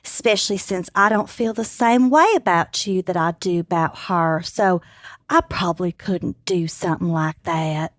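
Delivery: Texan man. Acted. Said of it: "would you like to read for Alan".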